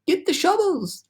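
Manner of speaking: very high, slow calling voice; shouting cloudman. Acted. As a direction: call out to the crew from afar. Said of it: "they heard him shouting".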